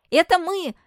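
high, loud cheerful shout; shouting in chorus. Acted. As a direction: shout it out together. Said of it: "хором закричали мальчики".

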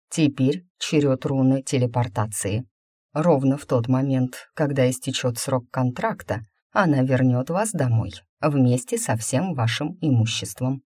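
a hint of an assured mage, measured; lightly voiced formal mage. Mage explains the return rune to his new employee, lightly voiced and formal. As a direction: lightly play the mage laying out terms.

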